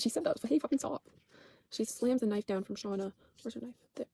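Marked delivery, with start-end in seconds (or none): 0.0-0.4 higher, more incredulous repeat; amazed she really said it; bigger disbelief. Real, not acted. 0.5-1.0 a hint of an angry shout, slightly louder; mock snapping. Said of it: "Nat's like".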